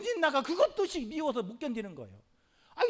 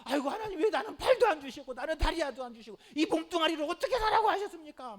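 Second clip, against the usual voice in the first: raised, louder mock wail to God; imagined lament; 6 semitones higher, 5 dB louder than usual. Ototake imagined complaining to God, mock lamenting wail. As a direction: cry out a hammed-up complaint to heaven. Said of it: "원망하고 절망했다면".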